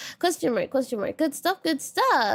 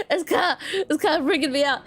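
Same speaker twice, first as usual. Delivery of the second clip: laughing; 3 semitones higher than usual. Real, not acted. Laughing while admitting fear.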